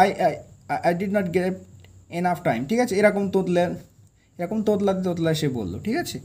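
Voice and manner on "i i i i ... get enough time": stuttering. Acted. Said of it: "মানে তোতলাতে".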